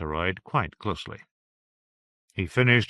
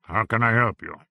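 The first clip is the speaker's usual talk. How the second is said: gravelly voice. Acted. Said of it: "in a gravelly voice".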